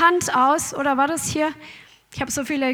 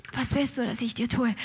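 quiet repeat; 5 semitones lower, 10 dB quieter, faster than usual. Shown as a demonstration. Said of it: "diese Frage".

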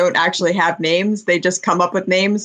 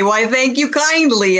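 higher, polite Minnesotan lilt; Fargo accent; 4 semitones higher than usual. Acted. Furbolg thanking an old villager, Fargo accent. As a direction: thank them in folksy Fargo. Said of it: "I'm going full Fargo over here".

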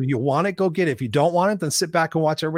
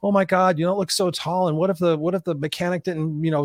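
nervous worry; 3 semitones higher than usual. Retold or imitated. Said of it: "The group behind me was like".

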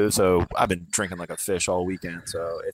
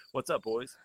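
quiet voice; 3 semitones higher, 7 dB quieter than usual. Real, not acted. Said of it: "You're so quiet".

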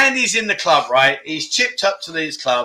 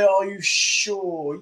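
doubtful question; 5 dB quieter, much slower than usual. Shown as a demonstration. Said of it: "would you say".

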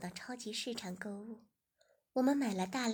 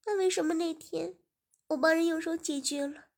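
higher and louder, building to anger; young woman growing upset; 6 semitones higher, 7 dB louder than usual. A narrator's reading. Servant girl challenging her master, growing louder and higher. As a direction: confront him, voice climbing.

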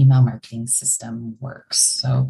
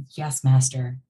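genie. Retold or imitated. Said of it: "We are like the genies in the bottle".

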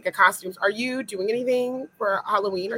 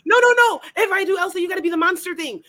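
excited protest; 9 semitones higher, faster than usual. Real, not acted. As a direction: shout it down, laughing and insisting. Excited protest about costumes.

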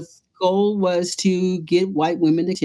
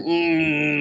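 throaty doubtful hum; 3 semitones lower than usual. Retold or imitated. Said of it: "They're talking in their throat".

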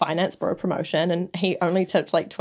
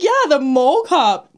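higher, drawn-out yeah, then falling; slow, matter-of-fact reply on a raised pitch; amused confirmation; 5 semitones higher, slower than usual. Retold or imitated. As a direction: confirm it as if obvious. Teller confirms to the man.

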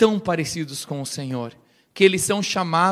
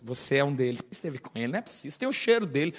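accusing mutter; 6 semitones lower, 9 dB quieter, much faster than usual. Retold or imitated. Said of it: "até negando, Pedro não consegue convencer".

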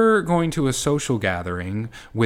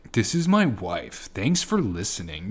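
surfer dude; 2 semitones lower than usual. Acted. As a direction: draw it out like a surfer. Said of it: "like, surfer dude".

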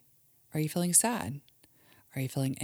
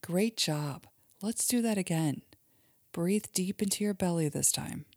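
put-on guided imagery for kids; 2 semitones higher than usual. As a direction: lead a child gently through a calm daydream. Mom leads kids' guided imagery.

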